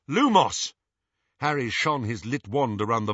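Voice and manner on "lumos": loud, high spell call; spell cast aloud. Acted. Casting spell in dark.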